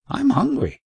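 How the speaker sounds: high, whiny complaint; a hungry boy's pleading whine; plaintive whine. A narrator's reading. Boy complains to his guide.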